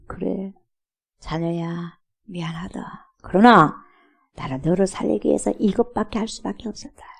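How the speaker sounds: soft, gentle fatherly reply; God softly consoling his child after the complaint; tender God voice. Acted. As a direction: comfort a hurting child quietly.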